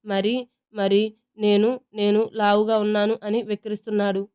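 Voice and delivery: put-on a child starting to wail; hammed-up tearful tattling; whiny crying tone. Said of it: "ఏడుపు రాగం అందుకుంటుంది".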